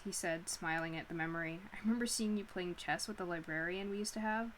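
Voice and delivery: measured audiobook-style reading; story narration. A narrator's reading. Reading Nora's awkward meeting with Ash, story narration. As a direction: read the novel aloud to listeners. Reads a novel aloud.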